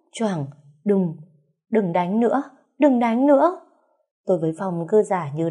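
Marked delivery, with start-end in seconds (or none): 1.7-2.4 higher, pretend tearful begging; a hint of faked weeping; fake crying plea. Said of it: "bắt đầu khóc lóc thê lương". 2.8-3.6 much higher, louder pretend wail; hammed-up crying scream; fake wailing plea. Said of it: "bắt đầu khóc lóc thê lương".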